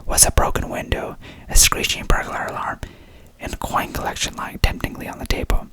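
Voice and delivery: put-on storyteller whispering in a British accent; whispered British accent. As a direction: read the detective's solution in a whispered British accent. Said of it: "Okay, back to accent, in character".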